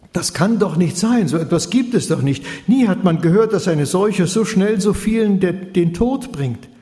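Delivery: son's despairing outburst to his father. Acted. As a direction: rail against the news. Son despairs over deaths.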